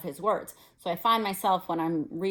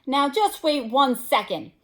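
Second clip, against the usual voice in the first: loud and higher, furious; angry; 6 semitones higher, 5 dB louder than usual. A narrator's reading. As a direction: hold them with rising anger. Hagrid enraged.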